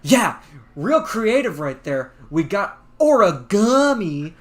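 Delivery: mock him with dry sarcasm; deadpan sarcastic jab; sarcastic Josh. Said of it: "Josh will say".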